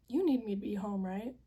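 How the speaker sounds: asking, voice lifting hopefully; hopeful question. Retold or imitated. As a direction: ask it, fishing for a yes. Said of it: "No, you need me to come home".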